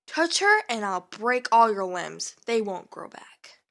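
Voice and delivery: stern threat. Acted. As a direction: warn him coldly and firmly. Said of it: "Ash said sternly".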